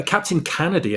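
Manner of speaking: "Kennedy" said as CAN-uh-dee; corrected name pronunciation. Shown as a demonstration. Correcting the host on a misheard name, "Kennedy" pronounced CAN-uh-dee. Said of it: "it's easy to mishear his name".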